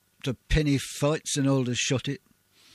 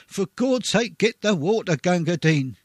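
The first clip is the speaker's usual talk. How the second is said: desperate call; 2 semitones higher than usual. Retold or imitated. Wounded soldier calling for water.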